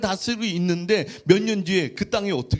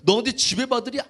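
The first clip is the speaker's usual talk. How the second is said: mildly acted fatherly scolding; angry father. Father Jacob rebuking Joseph for his dream, mild anger. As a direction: scold a son with a touch of indignation. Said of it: "야곱까지도 화를 내요".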